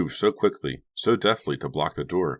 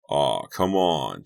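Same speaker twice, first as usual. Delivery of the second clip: slow, lightly imitated kid whine; mimicking child whine; 3 dB louder, much slower than usual. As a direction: copy the boy's whine, playfully. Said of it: "sounding just like him".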